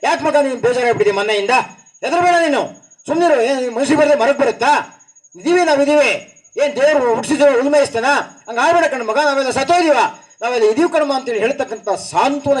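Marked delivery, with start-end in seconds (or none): 0.0-11.1 lightly voiced comforting grandmother, pitched higher; a hint of a soothing old aunt, raised pitch; consoling elder. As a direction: reassure the boy like a village elder would. Elder consoling a sad boy.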